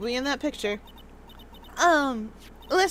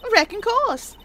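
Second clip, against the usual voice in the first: southern drawl; 6 semitones higher, slower than usual. Acted. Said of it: "It's short for you reckon".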